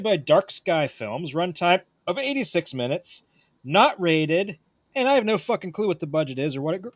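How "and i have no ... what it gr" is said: talking through hiccups; hiccuping mid-sentence. Real, not acted. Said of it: "Sorry, I have the hiccups".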